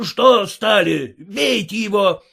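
mild mock furious order; furious shouting. A narrator's reading. Red-faced master yells at stalled workers, angry. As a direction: spur the idle men on in rage. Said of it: "кричал побагровевший от злобы хозяин".

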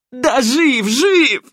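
high loud thug shouting, begging; panicked shouting. Acted. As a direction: blurt it all out in pain. Грабитель кричит под пыткой. (крик грабителя под болью)

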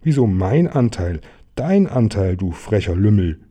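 mildly heated, acted retort; indignant quarrel. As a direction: throw the blame straight back. Bear quarrels over the share.

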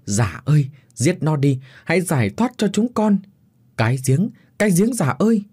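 put-on pleading shout to the old man; calling out loud. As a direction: voice rising to a desperate cry. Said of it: "nó nói to lên".

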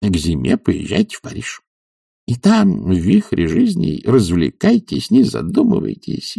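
a self-assured physician lecturing his patient; doctor's voice. Acted. Doctor prescribing a regimen to Oblomov, confidently.

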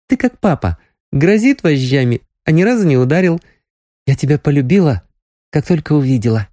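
put-on young girl, fond. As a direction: speak like a girl confessing love. Nastya's declaration of love.

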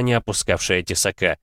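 ordinary delivery

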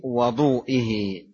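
"وضوئه" with an a vowel after the waw, wa-DOO-ih; fatha on the waw. Shown as a demonstration. Teacher reading hadith to students, "وضوئه" slowly with fatha on waw. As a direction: say "وضوئه" slowly, opening on "wa", not "wu". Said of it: "بفتح الواو".

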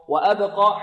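وأبقى with the b bounced before qaf; qalqala on ba. Shown as a demonstration. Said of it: "الباء هنا مقلقلة".

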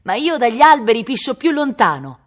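put-on loud, high boyish taunt; defiant shout. A narrator's reading. Bored son in the tree taunting his father, shouting. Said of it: "Cacciò fuori la lingua e gridò".

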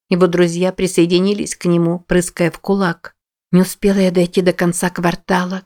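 plain reading voice

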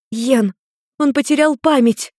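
high and loud, blurted out fast. A narrator's reading. Maimi shielding Nergal, blurting to Ian high and loud. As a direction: blurt it out to stop him. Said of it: "выпалила Майми".

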